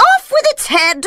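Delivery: very high, very loud royal command; queen orders an execution, screaming; furious shout. A narrator's reading. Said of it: "she shouted".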